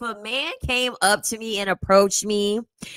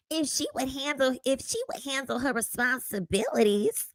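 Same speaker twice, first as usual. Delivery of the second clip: lightly voiced mock of his soft delivery; mimicking the man; 4 semitones higher, 5 dB quieter than usual. Reactor mocking the TikTok man's way of talking, playful imitation. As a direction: quote him back in a playful, higher voice. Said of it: "he sound like a, more of a woman than I do".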